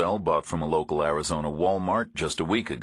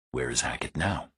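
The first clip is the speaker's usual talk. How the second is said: put-on flat Eastern European accent; 4 semitones lower, 4 dB quieter than usual. A narrator's reading. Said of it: "Some kind of a flat monotone accent".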